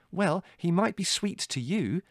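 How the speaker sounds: high, slow, pointed reply; sarcastic retort. A narrator's reading. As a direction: lean sourly into the concession. Larry retorts to Mother.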